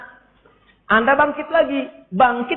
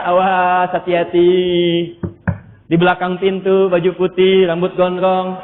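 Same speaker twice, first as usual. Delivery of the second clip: whispering devil; 3 semitones lower, slower than usual. Retold or imitated. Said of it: "dibisikin sama dia".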